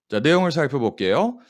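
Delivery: usual speaking voice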